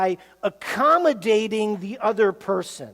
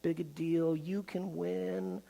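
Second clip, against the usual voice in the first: teddy bear voice; 3 semitones lower, 11 dB quieter than usual. Retold or imitated. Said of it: "says the teddy bear".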